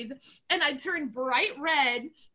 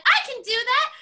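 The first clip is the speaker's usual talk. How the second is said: cocky challenge; 8 semitones higher, 7 dB louder than usual. Retold or imitated. Child accepting the challenge.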